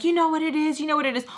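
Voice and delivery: high retold accusation; mad. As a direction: imitate a fed-up mom accusing. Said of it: "Missus Peach gets mad".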